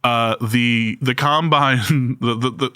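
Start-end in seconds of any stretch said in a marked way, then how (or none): 2.2-2.7 breaking into laughter mid-word; can't get the words out for laughing. Real, not acted. Host cracks up mid-story.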